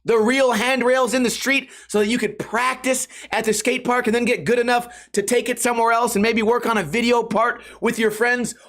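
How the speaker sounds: usual speaking voice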